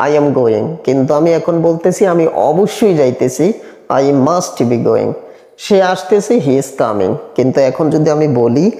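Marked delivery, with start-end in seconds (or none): 4.0-5.1 very slow, every word apart; slow model sentence. Shown as a demonstration. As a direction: dictate it slowly to the class. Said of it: "teacher models the sentence". (ধীরে ধীরে উচ্চারণ)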